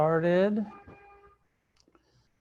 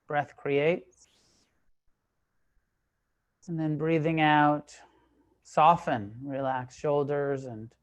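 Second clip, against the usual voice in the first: calm, measured meditation guidance, long pauses between phrases; guided meditation. Real, not acted. Teacher leading a group into sitting meditation, calm and unhurried. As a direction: guide them into stillness, leaving space after each phrase.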